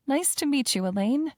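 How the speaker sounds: friendly greeting, smiling through it; bright smile. Acted. Heiress greeting the shy new maid, bright and smiling. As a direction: greet her kindly with a smile. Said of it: "with a bright smile".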